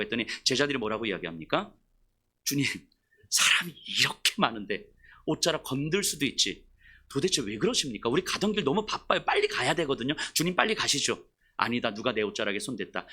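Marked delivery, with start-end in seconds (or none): 2.4-11.2 low, muttered mock complaint; impatient disciples. Disciples impatiently dismiss Jesus. 11.6-13.1 low, soft, firm Jesus; quiet insistence. Retold or imitated.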